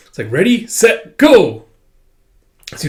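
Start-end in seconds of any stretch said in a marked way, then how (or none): 0.3-1.6 rising call, loud on go; starter's shout, building to a loud go; race start call. Retold or imitated.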